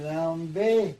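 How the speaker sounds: high, loud blurted word; mock strange outburst; odd exclamation. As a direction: blurt it out suddenly. Strange word spoken in dream.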